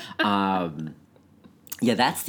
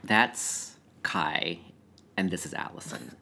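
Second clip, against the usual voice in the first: whispered changed voice; 2 semitones lower, slower than usual. Pretend. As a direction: whisper the names in a put-on voice. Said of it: "We've changed our voices".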